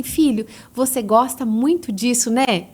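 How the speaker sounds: put-on slow, gentle validating tone to a child; a touch of tender parent voice; gentle connecting. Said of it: "Agora você fala assim".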